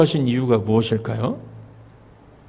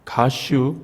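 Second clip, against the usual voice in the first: Chungcheong dialect; much slower than usual. Shown as a demonstration. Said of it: "충청도는요?".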